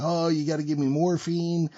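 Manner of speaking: mild high whine of a patient; half-hearted high wail for drugs; mock screaming. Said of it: "this asshole screaming his fucking head off".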